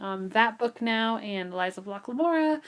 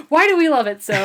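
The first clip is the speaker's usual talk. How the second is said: loud, higher-pitched wail through laughter; laughing mock lament; 7 semitones higher, 11 dB louder than usual. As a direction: cry out in playful despair, laughing. Mock lament amid shared laughter.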